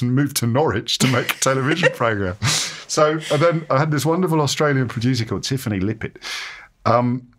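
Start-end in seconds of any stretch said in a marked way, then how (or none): 2.9-6.2 put-on Australian accent. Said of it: "Did you just do an Australian accent there for her name?".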